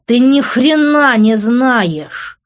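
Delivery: slow, high, loud outburst; enraged, emphatic shout; furious yelling. A narrator's reading. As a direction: bellow it with every word stretched. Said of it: "заорал я".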